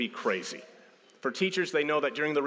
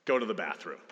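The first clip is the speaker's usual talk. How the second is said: low, falling, no longer a question; firm instruction; 3 semitones lower than usual. Acted. Parent to kids who took it as a question, firm instruction. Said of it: "I said it as a question".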